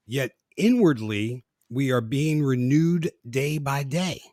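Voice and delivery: solemn Bible reading; measured sermon-style reading; scripture reading. Acted. Reads a scripture passage.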